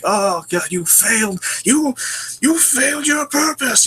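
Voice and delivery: high-pitched mock-lamenting parents; hammed-up parental despair; scolding parents. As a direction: wail it like disappointed parents, slowing at the end. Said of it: "usually they're all like".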